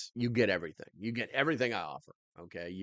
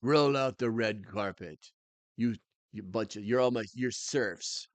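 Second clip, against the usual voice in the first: mock royal decree. Mock king to his viewers.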